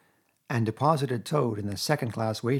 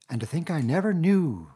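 dreamy monotone; 6 semitones higher, 4 dB louder than usual. A narrator's reading. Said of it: "in a dreamy monotone".

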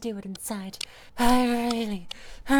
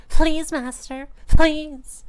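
higher, much louder pleading that swells; desperate begging; 5 semitones higher, 10 dB louder, much slower than usual. Acted. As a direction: cry out the pleas, rising to the last.

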